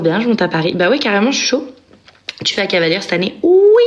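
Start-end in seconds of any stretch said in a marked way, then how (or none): 3.4-3.8 high, loud eager oui; excited yes. Real, not acted. Asked about Cavalière this year, bursting with eagerness.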